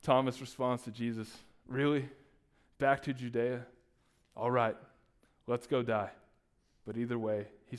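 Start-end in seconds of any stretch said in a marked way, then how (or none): 1.7-6.1 sarcastic, grudging reading; smart aleck. Shown as a demonstration. Pastor reads Thomas as a smart aleck, sarcastic. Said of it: "and that's like a smart aleck".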